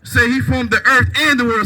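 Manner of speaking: "and" pushed hardest and falling; stress on AND. Shown as a demonstration. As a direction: lean on the little word "and" between earth and world. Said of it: "So emphasis on that "and".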